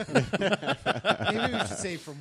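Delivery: laughing through the words; giggling while talking. Real, not acted. Laughing joke about memory.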